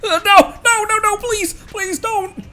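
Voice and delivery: very high, slow, frantic begging; panicked pleading. Acted. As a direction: beg desperately, voice up high.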